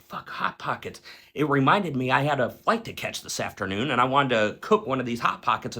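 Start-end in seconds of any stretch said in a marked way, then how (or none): 0.0-1.0 breathy whispered aside to himself; whispered curse. Retold or imitated. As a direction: whisper it, mildly let down. Muttered reaction at the freezer.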